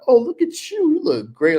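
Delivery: high gushing flirt voice; flirty compliment. Retold or imitated. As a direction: coo it high like a charmer. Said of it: "they'll be like".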